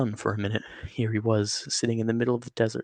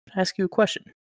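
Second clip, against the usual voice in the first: higher and louder burst; sudden question; 9 semitones higher, 5 dB louder, faster than usual. Acted. Jack abruptly questions the snake, high and loud. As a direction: jump in eagerly. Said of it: "Jack says suddenly".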